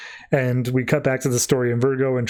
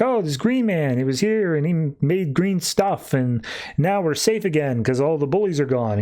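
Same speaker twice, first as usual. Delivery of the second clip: a hint of a happy child; little girl voice; 2 semitones higher than usual. Girl tells the stranger about the green man, lightly voiced child.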